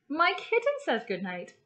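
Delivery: bright, even storybook read-aloud for little ones; gentle classroom story reading; reading to children. Acted. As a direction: read it like a picture book to a class. Teacher reads picture book aloud.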